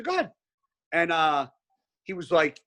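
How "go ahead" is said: high, taunting go ahead; mocking dare. Speaker taunts the kid to call police, high. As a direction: dare him, voice jumping up.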